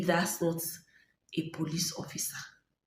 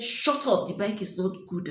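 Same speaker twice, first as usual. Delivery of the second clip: higher, louder mock bark that settles on the second half; retold angry shout; 3 semitones higher, 5 dB louder than usual. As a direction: imitate the officer snapping. Officer's reply, retold quarrel.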